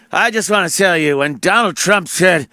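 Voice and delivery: lightly voiced Biden rising to a shout; mock worked-up Biden. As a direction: ham up an old politician getting heated. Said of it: "gets all excited".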